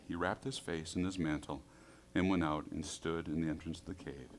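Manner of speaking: ordinary delivery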